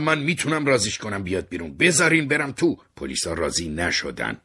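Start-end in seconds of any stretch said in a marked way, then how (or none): 0.0-2.8 loud, rising to a high shout; pleading loudly with police to let him in; shouted plea. Acted. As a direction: beg the police at full voice. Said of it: "داد زدم".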